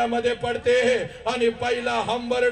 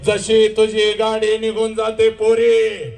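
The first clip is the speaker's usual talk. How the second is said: loud slow preaching cry; 6 dB louder than usual. Acted. Dramatic preaching peak.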